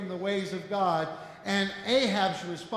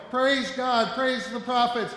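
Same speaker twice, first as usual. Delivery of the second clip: louder, higher cry of joy; joyful exclaiming; 4 semitones higher, 5 dB louder than usual. Retold or imitated. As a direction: praise God like a delighted father. Father dances with joy.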